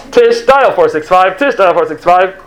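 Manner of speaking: lightly imitated radio page; a hint of walkie-talkie in a repeated page; walkie-talkie impersonation. Agent paging Tish over the radio, mock walkie-talkie voice. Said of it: "That's my impersonation of a walkie-talkie".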